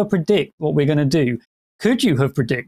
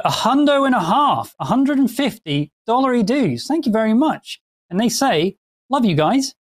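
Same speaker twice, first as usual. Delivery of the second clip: high and excited; excited donation read; 7 semitones higher than usual. Acted. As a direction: hype up the donation.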